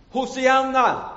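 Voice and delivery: high, slow, loud hosanna shout; loud cry. Acted. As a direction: cry out Hosianna like the crowd. Crowd cries out in reading.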